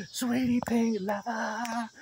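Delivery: soft, slow whisper. Pretend. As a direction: whisper it slowly and sweetly. Whispered endearment.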